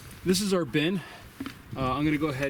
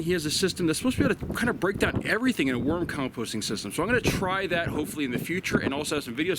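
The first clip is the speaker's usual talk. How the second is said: wind on mic; 3 semitones higher than usual. Real, not acted. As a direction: wind gusting into the microphone. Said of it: "Sorry about the wind noise out here".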